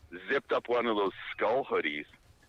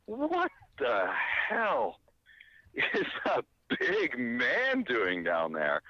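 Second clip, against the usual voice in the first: retelling a stunned "what is that"; shocked disbelief; much slower than usual. Retold or imitated. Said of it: "and I'm just like".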